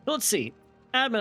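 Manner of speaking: slight lisp from a retainer; talking with a thick retainer in; wearing a retainer. Real, not acted. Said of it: "I feel like I have a little bit of a lisp".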